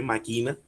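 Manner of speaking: "máquina" said as ma-QUI-na; stress on QUI. Shown as a demonstration. Teacher mentions a rarely used term, "máquina" stressed on QUI. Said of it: "que se dice máquina".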